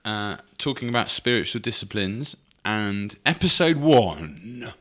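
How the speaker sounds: light mock radio presenter, slowed; lightly played radio announcer. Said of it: "my best Radio one voice".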